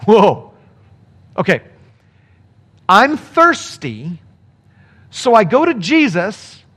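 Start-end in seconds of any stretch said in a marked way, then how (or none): 0.1-1.6 mock awe.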